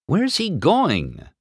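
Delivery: cocky race car. A narrator's reading. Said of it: "McQueen asked".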